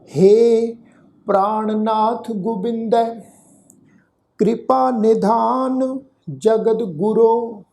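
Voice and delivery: slow, measured recitation with held syllables; scripture recitation. Shown as a demonstration. Teacher leading the congregation in the verse, slow recitation. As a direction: recite it slowly, phrase by phrase. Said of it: "ਆਓ ਉਚਾਰਨ ਕਰੀਏ".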